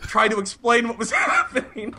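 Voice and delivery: high, squealing through laughter; slow words broken by real laughs; helpless laughter. Real, not acted. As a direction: struggle to speak while cracking up. Cracking up at own embarrassing line.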